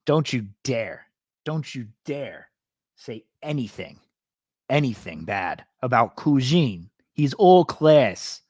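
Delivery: slow, mock-stern New York Italian accent; Cuisine. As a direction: defend him in a hammed-up Italian-American accent. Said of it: "I just like his accent".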